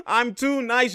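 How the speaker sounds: drawn out and slow, laughing at his own skill; slow, smug laughing brag; slow gloating laugh. Real, not acted. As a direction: savor it slowly through a chuckle.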